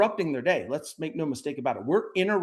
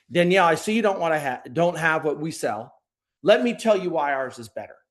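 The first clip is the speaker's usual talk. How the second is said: wrong pushy pitch; 2 semitones higher, 4 dB louder than usual. Shown as a demonstration. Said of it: "The wrong version would be".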